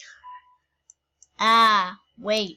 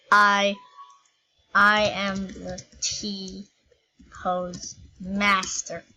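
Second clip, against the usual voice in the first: very slow, drawn-out mock-epic declaration; grand proclamation; much slower than usual. To viewers, boasting as T-pose master, slow mock-epic proclamation. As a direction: proclaim it slowly like a conquering overlord. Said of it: "I, for I am the T-pose master".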